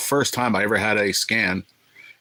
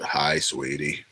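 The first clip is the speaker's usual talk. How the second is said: low, slow put-on greeting; mock low-voiced nurse; deep-voiced woman impression; 5 semitones lower, much slower than usual. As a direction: drag out a creepy sweet-talk, pitched down. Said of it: "if she sounds like this".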